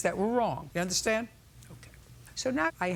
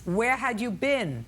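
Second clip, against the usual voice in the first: louder, slower, been hit hard; insistent repeat; 5 semitones higher, 4 dB louder, slower than usual. Real, not acted. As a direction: demand the answer this time. Repeats after dodged answer.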